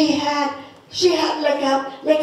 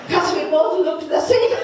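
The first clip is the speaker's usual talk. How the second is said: laughing at herself; 3 semitones higher than usual. Retold or imitated. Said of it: "and I was thinking".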